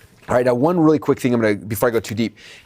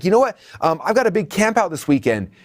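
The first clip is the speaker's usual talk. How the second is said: customer explaining; 6 semitones higher than usual. Acted.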